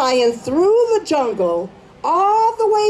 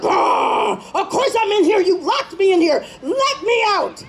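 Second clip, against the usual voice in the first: lion yelling higher, a roar at the start; trapped lion roars at the rabbit; 5 semitones higher than usual. Acted. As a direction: roar it out, fed up. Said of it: "the lions roared".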